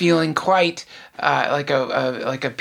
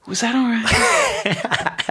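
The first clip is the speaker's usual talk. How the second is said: slow, higher, laughing insecure ask; mock needy question; 8 semitones higher, much slower than usual. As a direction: play the anxious lover. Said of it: "compulsion to ask".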